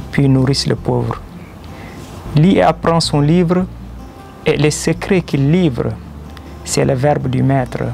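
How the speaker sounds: measured devotional verse, a pause after each line; poem recitation. Acted. Poet reciting his verses in praise of the Creator, poem recitation. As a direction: declaim rhymed praise line by line.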